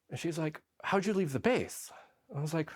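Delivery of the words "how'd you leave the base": much higher, curious nurse voice; higher-pitched nurse's question; imitating the nurse. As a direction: ask it like a startled nurse.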